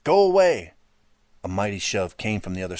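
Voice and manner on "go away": high, loud scream; boy screaming at the intruder behind the door; terrified yell. A narrator's reading. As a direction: scream him away. Holding door against intruder.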